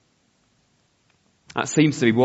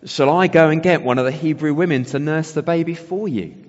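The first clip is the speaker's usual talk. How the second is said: higher, louder eager Miriam; eager offer; 5 semitones higher, 6 dB louder than usual. Acted. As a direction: jump in with a keen, raised-voice offer. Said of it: "Moses' sister Miriam jumps forward".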